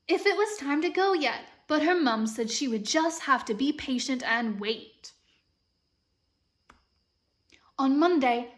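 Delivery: story reading with an imitated British lilt; American trying a British accent; amateur British accent. Shown as a demonstration. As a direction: read aloud in a patchy British accent. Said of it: "practicing reading this book in a British accent".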